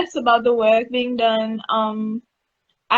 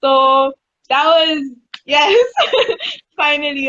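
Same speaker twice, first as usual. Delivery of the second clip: excited; 3 semitones higher, 4 dB louder than usual. Real, not acted. Long-awaited manta sighting.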